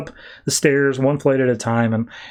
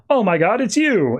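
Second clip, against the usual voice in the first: higher-pitched delighted surprise; excited reunion; 7 semitones higher than usual. Retold or imitated. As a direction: act out a thrilled, high-pitched greeting.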